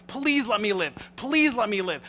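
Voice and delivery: high, loud frantic plea for mercy; desperate begging. Retold or imitated. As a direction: beg the king to spare you. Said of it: "Haman's like".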